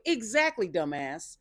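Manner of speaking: loud, high exclamation at the screen; excited viewer yelling at the episode; loud reaction. Real, not acted. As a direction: shout agreement at the TV. Reacting loudly to the show.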